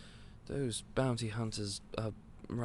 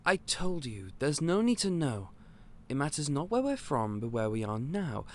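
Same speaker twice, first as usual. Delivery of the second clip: firm insistence; 3 semitones higher, 3 dB louder than usual. Acted. Shopkeeper refusing the customer's question, firm. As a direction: shut the question down, not unkind. Pressed again about origins.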